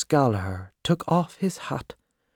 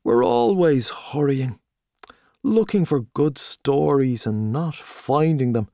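hearty Gallagher; 2 semitones higher, 4 dB louder than usual. Acted. Gallagher greeting old friend Tommy in the pub, loud and hearty. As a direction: boom out the welcome like a showy journalist.

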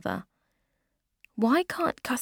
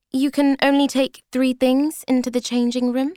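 bluffing high; 7 semitones higher, 7 dB louder than usual. Acted. Becky inventing a shop rule.

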